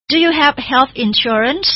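slow teacher question; slow model question. Shown as a demonstration. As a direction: ask it slowly and clearly. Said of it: "เขาก็ถามกลับมาบอกว่า".

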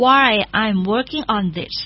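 slow, careful English; slow teacher model; slow model reading. Shown as a demonstration. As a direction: read slowly for learners. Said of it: "ประโยค common".

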